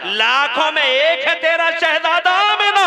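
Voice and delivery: high, loud preacher's shout; preaching at full force. Acted. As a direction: tear through the silence with the cry. (ऊँची, ज़ोरदार तक़रीरी पुकार)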